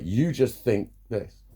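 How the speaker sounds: slow, drawn-out mocking of a dismissive line; mock dismissive quote. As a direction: drag each word like a know-it-all. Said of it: "people say to me start with that".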